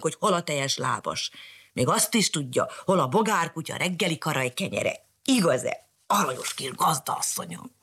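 a hint of a gruff old dog; growling dog. Old dog scolding the cat. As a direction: snap at the cat then flatter. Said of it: "rámordult a cicára".

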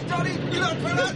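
high mock lament; put-on wail; staged horrified wailing. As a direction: pretend to discover a terrible accident. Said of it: "Hogy te kiabálsz".

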